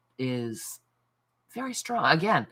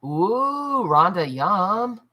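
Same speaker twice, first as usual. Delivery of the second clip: high, slow delighted ooh; yummy ooh; 6 semitones higher, 6 dB louder, much slower than usual. Real, not acted. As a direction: savour the yum. Reacting to viewer's food.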